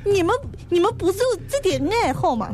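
lightly put-on Shanghai accent; a hint of Shanghai lilt, chatty. Messenger teasing Lin Chong in a light Shanghai accent. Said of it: "你们怎么也变成这个口音了".

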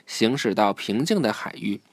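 clear, measured storybook reading; children's story narration. A narrator's reading. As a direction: read the story aloud to a child.

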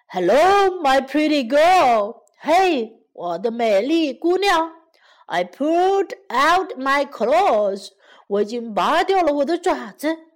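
lightly voiced lion, cheerily drawn-out greeting; a touch of eager excitement; eager, excited lion. Lion bounding back to the girl, mildly excited. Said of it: "狮子兴冲冲地跑来说".

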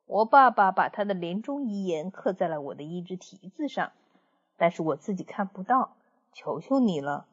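lightly voiced wise old horse. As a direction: humbly lure the wolf closer. Old horse tricks the wolf.

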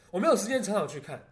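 Taiwanese accent. Shown as a demonstration. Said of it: "换个调调".

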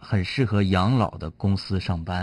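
slow deadpan joke setup; telling a dad joke. Acted. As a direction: draw out the setup slowly, straight-faced. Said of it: "我给你讲个冷笑话".

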